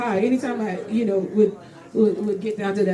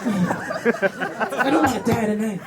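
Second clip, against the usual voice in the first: weary dread; much slower than usual. Retold or imitated. Dread at invitation.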